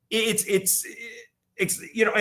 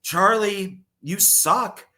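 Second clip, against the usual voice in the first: a mock mean mom, louder at the end; harsh mom; 4 semitones higher, 7 dB louder than usual. Retelling the movie, Charlie's mom crushing his hopes. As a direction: scold Charlie like a mean, dismissive mother. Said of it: "His mom is such a downer".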